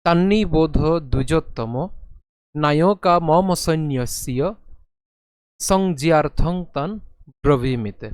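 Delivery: slow measured chant of a Sanskrit verse; sloka recitation. Acted. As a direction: intone the verse steadily.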